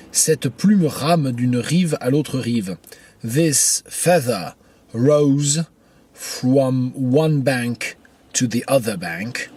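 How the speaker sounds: slow, spaced-out verse reading; poetry reading. Acted. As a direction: recite the verse slowly, phrase by phrase. Lit le vers, puis sa traduction. (lecture de poème, lente et posée)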